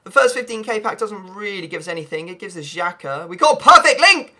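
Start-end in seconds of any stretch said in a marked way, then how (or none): 3.3-4.3 excited. Real, not acted. Excited pack opening find.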